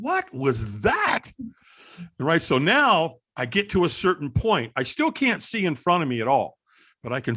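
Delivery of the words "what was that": drawn-out, very slow disbelief; baffled. Retold or imitated. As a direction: stretch each word in retold bewilderment. Retold bafflement at the stranger.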